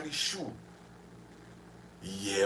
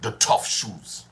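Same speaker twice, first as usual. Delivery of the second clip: slow ad voice; slogan read slowly; 6 semitones lower, slower than usual. Retold or imitated. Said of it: "he said".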